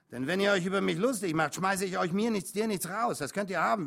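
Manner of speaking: high, loud warning; forceful, affronted trucker rant; angry threat. A narrator's reading. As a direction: threaten the boys with eviction. Trucker threatens to throw them out.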